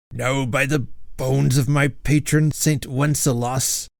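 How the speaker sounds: put-on gruff old knight ghost; growled. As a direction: growl the oath. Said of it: "growled Sir Hugo".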